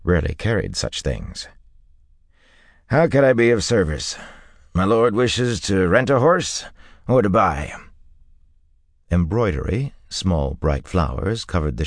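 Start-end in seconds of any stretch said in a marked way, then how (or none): 2.9-7.7 lightly voiced salesman, raised pitch; an eager-to-serve stableman, pitched up; obliging horse dealer. A narrator's reading. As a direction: offer your services to a lordly customer. Stableman character in narrated story.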